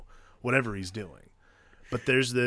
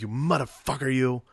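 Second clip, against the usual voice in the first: put-on Pesci-style accent with hard R's; imitated gangster accent, R's pronounced; Pesci's movie accent. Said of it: "it's this really specific accent".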